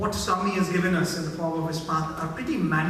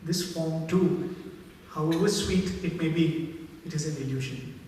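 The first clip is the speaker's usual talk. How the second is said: gently voiced mother; 2 semitones lower, 3 dB quieter than usual. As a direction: lightly voice a mother's quiet, smiling admission. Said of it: "The mother smiles and says".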